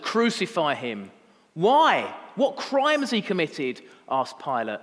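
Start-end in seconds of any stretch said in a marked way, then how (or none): 0.0-1.1 firm, louder crowd answer, not yet shouted; the first, more contained demand of a crowd; crowd's demand. Acted. Crowd answers Pilate's question, firm raised demand. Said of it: "they shouted all the louder". 1.5-3.8 loud, high-pitched protesting question; challenging demand. Acted. Pilate questions the crowd over Jesus, loud challenge.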